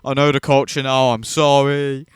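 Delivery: whiny mock apology, rising to a plea. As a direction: mimic a grovelling apology, half-hearted. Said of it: "have to write out a whole thing about".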